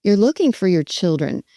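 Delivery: understated, empathetic echo of someone's worry; matching worry. Shown as a demonstration. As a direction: say it with their emotion, lightly. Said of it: "I say it with that kind of a voice".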